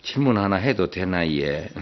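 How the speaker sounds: slow, sweet Gyeongsang wife asking; lightly coy Gyeongsang drawl, wheedling; coy Gyeongsang dialect. Acted. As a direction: Gyeongsang wife sweetly asks her husband for a riddle. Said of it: "경상도 남편에게 애교스러운 표정으로".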